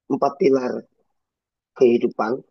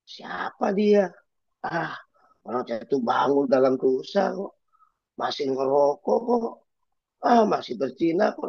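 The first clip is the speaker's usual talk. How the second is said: scornful gossip; 3 semitones higher than usual. Retold or imitated. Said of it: "banyak orang bilang gini".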